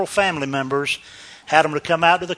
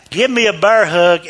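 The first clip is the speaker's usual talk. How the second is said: normal talking voice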